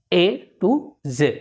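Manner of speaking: A to Z said slowly and clearly; careful classroom A to Z. Shown as a demonstration. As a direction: spell it out slowly. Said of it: "पूरा जेड नहीं कहना है".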